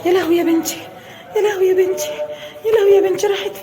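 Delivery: rising frantic cry of alarm; frantic mother's wail; panicked wail. Acted. Repeat of panic scene.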